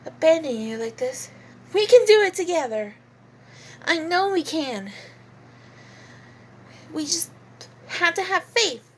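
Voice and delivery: lightly voiced, halting sincerity, then rising resolve; a hint of an earnest heroine; coyote voice. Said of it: "this is probably a terrible ca-, coyote voice".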